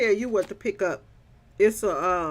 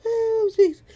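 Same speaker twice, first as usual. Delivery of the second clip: high loud laughing Oh Jesus; crying out through laughter; helpless with laughter; 13 semitones higher, 10 dB louder than usual. Real, not acted. Laughing fit.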